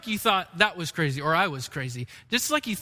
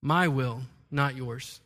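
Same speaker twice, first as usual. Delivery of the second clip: stubborn clay; 7 semitones lower, 3 dB quieter, slower than usual. Pretend. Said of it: "turn to the potter and say".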